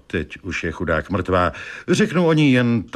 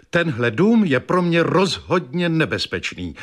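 fretful wife; 7 semitones higher than usual. Acted. Wife insists house is dangerous.

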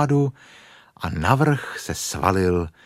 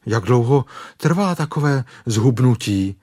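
slightly anxious higher question; mildly frightened; 4 semitones higher, 4 dB louder than usual. Acted. Stuck bear asks how long, mildly frightened. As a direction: ask with a touch of dread. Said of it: "zeptal se Pů ustrašeně".

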